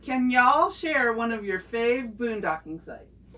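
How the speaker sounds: a light Southern Alabama drawl; Alabama accent. Acted. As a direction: read it in a mild Alabama accent. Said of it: "I gotta get my Alabama accent".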